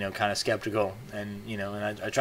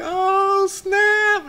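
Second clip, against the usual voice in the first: much higher and louder, a gleeful cry; excited oh snap; 6 dB louder than usual. Retold or imitated. Viewers cheering the best point, loud gleeful cry. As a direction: crow it like a hit just landed. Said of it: "just getting all excited".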